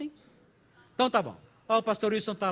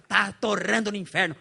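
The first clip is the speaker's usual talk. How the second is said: mock tactless verdict, slightly raised voice; blunt bad example; 4 dB louder than usual. Pastor showing what not to tell the bereaved, bluntly. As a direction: blurt it out as what never to say. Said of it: "não pode realmente falar desse jeito".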